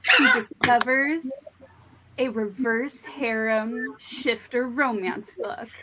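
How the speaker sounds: slow, dramatic trailer narrator, half laughing; lightly voiced epic announcer; movie trailer voice. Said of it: "you know the Mister Megaphone voice".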